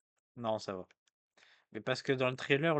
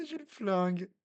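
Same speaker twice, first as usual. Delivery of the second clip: laughing; 10 semitones higher, 3 dB louder than usual. Real, not acted. Laughing reply.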